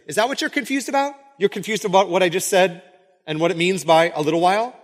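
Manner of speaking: high, quick disbelieving question; high-voiced acted query, easing down; mock questioning. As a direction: pitch it up as if checking with puzzled students. Voices Jesus checking on confused disciples.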